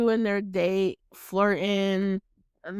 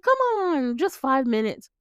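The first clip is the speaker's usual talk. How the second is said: high-pitched wheedling plea; imitating a man's pleading come-on; coaxing; 4 semitones higher than usual. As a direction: coax them playfully, voice lifted. Acting out Dice coaxing Billy upstairs.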